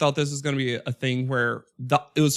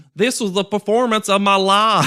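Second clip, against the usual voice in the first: put-on strong Southern accent, higher pitch and louder; 6 semitones higher, 6 dB louder than usual. Quoting a contestant who is tired and crying: imitating Will's strong Southern accent. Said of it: "that Southern accent is strong and proud".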